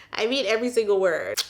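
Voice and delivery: laughing through the words. Real, not acted. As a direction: chuckle while you say it.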